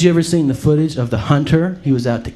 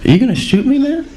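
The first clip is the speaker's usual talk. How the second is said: gangster deer voice; 12 semitones higher than usual. Retold or imitated. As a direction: play a cocky street deer. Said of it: "He's like".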